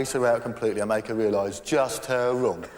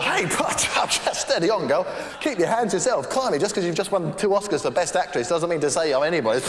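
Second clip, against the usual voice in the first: lightly voiced boastful boyfriend, higher and louder; smug lover; 5 semitones higher, 4 dB louder than usual. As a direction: fend her off with mock modesty.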